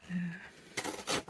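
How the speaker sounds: a northern English yeah, vowel flattened; northern accent. Shown as a demonstration. Joking about accents, a northern yeah. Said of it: "that's not the local accent".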